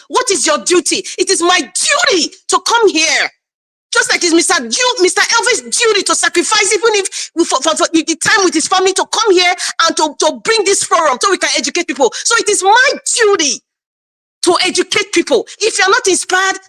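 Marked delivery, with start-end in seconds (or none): 1.2-3.3 passionate shout. Real, not acted. Passionate defense of her duty. 12.1-15.5 passionate shout. Real, not acted. Repeats duty passionately.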